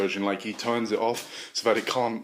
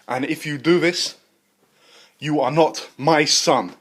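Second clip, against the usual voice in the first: stern father; 3 semitones higher, 5 dB louder than usual. Acted. Father-scientist disowning.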